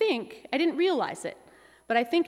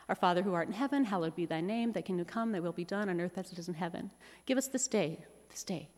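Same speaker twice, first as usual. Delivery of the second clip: soft, sleepy prayer trailing off; drowsy fading prayer; 5 semitones lower, 5 dB quieter than usual. Retold or imitated. Mom at bedtime praying, fading into sleep. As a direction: murmur the Lord's Prayer as sleep takes over. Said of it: "it goes a little like this".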